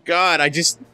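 laughing exasperation. Retold or imitated. Retold exasperated thought, laughing.

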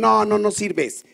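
slow, drawn-out put-down; scornful wife. Retold or imitated. Wife slowly telling husband he is useless. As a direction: dismiss him slowly.

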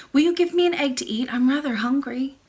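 put-on eager young princess asking; cartoon princess. Princess asks for an egg.

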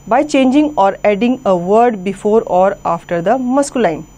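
slow, careful dictation of the rule; slow textbook reading. Acted. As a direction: read the heading out word by word, slowly. (धीमी, साफ़ किताबी पढ़ाई)

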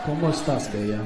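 second try, still a bad Spanish accent. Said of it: "the worst Spanish accent I've ever heard".

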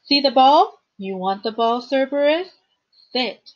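high, loud call to a dog; shouted command. A narrator's reading. Girl showing a monster dog the ball, shouted command. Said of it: "She shouted".

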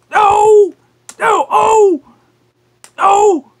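high squealing protests; being tickled. Pretend.

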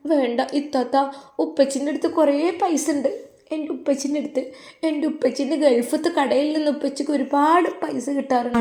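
put-on high, soft child's plea; lightly voiced pleading child; little girl voice. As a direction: sound like a small girl begging her aunt.

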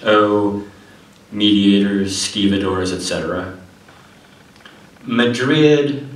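measured declaiming with pauses between phrases; poetry reading. Acted. Poet reads Red Epic to an audience, poetry reading. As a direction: read it out as verse, each line set apart. Reads own poem aloud.

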